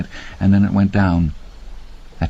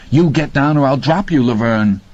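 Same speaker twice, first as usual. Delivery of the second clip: stern threat; 5 semitones higher than usual. A narrator's reading. Randy threatening.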